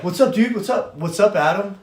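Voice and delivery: high, loud repeated greetings; mock-cheery pestering. Bob greets the rival he teases, mock-cheery. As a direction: pester him with over-eager hellos, imitating.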